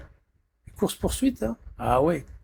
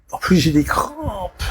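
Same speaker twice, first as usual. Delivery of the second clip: slow, louder groan about cramps; pained complaint; 2 semitones higher, 5 dB louder, slower than usual. Real, not acted. Streamer hit by cramps, groaning. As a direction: streamer in pain moaning about his cramps, slowed and louder. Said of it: "je suis énervé ce soir".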